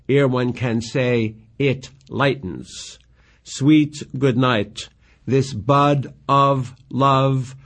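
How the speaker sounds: slow, measured verse recital; reciting Shakespeare with care; poem reading. Acted. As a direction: read the lines like a lover's plea. Reads Juliet's long speech.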